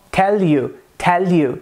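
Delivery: "tell you" with a clear, light Indian L; Indian English accent. Shown as a demonstration. Teacher showing the Indian L, Indian accent. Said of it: "Isso no inglês indiano".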